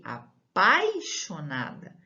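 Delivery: said slowly for the class to write; slow, careful dictation of apaixonada. Shown as a demonstration. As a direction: spell it out slowly. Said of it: "escreva aí".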